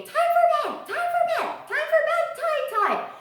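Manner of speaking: very high, loud squawking parrot voice; imitating a cockatoo screaming for bedtime; cockatoo screech. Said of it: "he will keep screaming".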